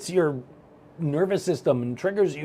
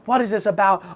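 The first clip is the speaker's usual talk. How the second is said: higher, sharp, impatient question; annoyed demand; 6 semitones higher, 3 dB louder than usual. Retold or imitated. Retold to his audience, an irritated demand. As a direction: demand it like a rattled guy. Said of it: "I'm like".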